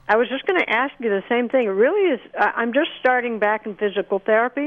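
talking while eating a banana; words round a bite of banana; mouth full. Real, not acted. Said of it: "I'm eating a banana".

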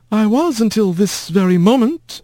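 cold and sour put-down; sour old aunt. A narrator's reading. Sour aunt Meline voiced.

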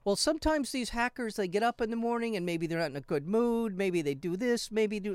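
imitating Putin with a Russian Godfather accent. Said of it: "they sound like The Godfather".

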